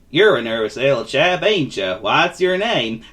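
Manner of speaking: lightly voiced kindly drawler; gentle vagabond. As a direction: ask kindly, slowing on the question. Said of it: "said the vagabond gently".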